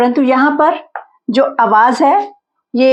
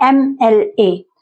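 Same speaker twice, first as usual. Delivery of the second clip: slow spelled letters; much slower than usual. Shown as a demonstration. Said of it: "ए से start हो रहा है ना".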